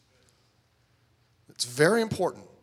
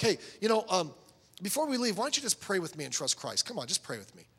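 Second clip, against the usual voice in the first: mock salesman coaxing; 4 semitones higher than usual. Pushy soul winner coaxing someone with bowed head, mock salesman. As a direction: coax them casually, as a parody of a pushy pitch. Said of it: "we're not a used car salesman".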